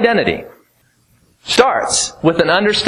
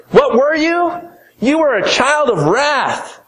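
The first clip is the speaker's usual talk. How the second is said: ringing challenge; 9 semitones higher than usual. Acted. Preacher demanding an answer from the congregation, high and ringing. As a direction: throw the question at them.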